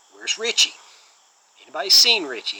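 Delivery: lightly put-on New York tough-guy demand; Steven Seagal. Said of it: "he says it in this cool New York accent".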